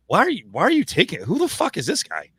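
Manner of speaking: incredulous aside. Retold or imitated. To himself watching a coach berate the media, incredulous. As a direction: react like you can't believe this guy. Inner reaction watching Mark Few.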